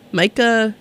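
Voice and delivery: name given a light French pronunciation; a touch of French accent on the surname. Real, not acted. Radio host attempts an unfamiliar artist name, light French accent. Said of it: "It's giving French".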